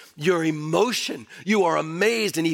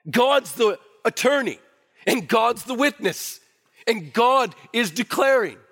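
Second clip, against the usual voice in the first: 1 preaching emphasis; 6 semitones higher than usual. Real, not acted. Preacher building emphatic triad.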